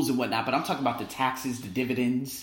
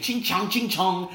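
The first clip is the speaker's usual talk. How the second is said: slow, raised mocking chant; mock taunt; 6 semitones higher, 4 dB louder, slower than usual. Locals taunting his student, slow mocking chant. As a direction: drag out the taunt slowly.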